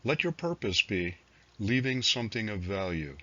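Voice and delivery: measured recital with pauses between phrases; poetry reading. Acted. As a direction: read it as verse, letting each line settle. Reads own poems aloud.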